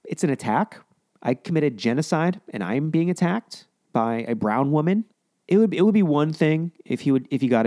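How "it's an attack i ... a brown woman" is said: whiny mocking imitation. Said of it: "Listen to this whiny little bitch".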